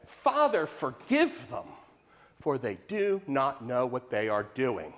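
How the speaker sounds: tender plea. Retold or imitated. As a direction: let the words sink gently, forgiving. Repeats Jesus' words more softly.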